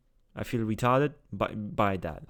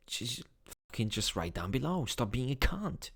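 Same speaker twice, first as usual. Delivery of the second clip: much softer, dropped under the breath; muttered aside; 8 dB quieter than usual. Real, not acted. To viewers who disagree, a soft muttered jab. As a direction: grumble it off to the side.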